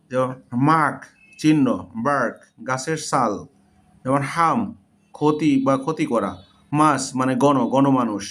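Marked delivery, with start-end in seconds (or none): 0.7-1.0 মার্ক with an open "ah", "maak". Shown as a demonstration. Teacher giving an example of A, মার্ক said "maak". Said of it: "এর উচ্চারণ আ". 4.3-4.6 হাম with an open "ah", "haam". Shown as a demonstration. Teacher giving an example of A, হাম said "haam". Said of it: "এর উচ্চারণ আ".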